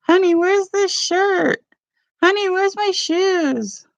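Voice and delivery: high, slow, helpless husband voice; mimicking husband. Wife mocking husband's morning questions in a high slow voice. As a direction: play the clueless husband asking for help. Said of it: "'cause he'd be like".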